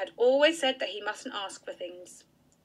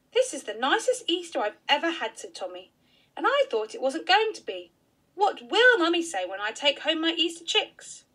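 put-on a lightly raised child's voice; a boy glad after all; happy little boy; 5 semitones higher than usual. Tommy tells Auntie his happiest Easter, lightly higher child voice.

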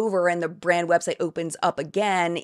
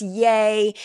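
sarcastic, louder fake "yay"; a hollow cheer thrown in with scorn; mock cheer; 3 semitones higher, 5 dB louder than usual. Mock cheer mocking the brand's empowerment pitch.

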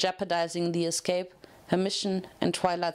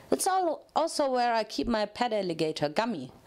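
bubbly Pinkie Pie. Acted. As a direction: bounce every word like an overexcited party pony. Pinkie Pie voiced in story.

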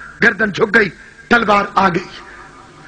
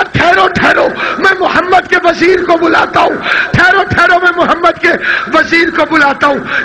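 raised declamatory call, easing at the end; urgent proclamation; 5 semitones higher than usual. Acted. Salman goes to fetch Ali, urgent proclamation. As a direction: call out to halt the court.

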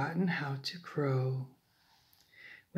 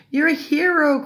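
high, loud cheer; excited cry; 9 semitones higher, 12 dB louder than usual. A narrator's reading. All the animals praise cockerel, crying out. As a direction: hail the hero loudly. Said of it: "cried all the animals".

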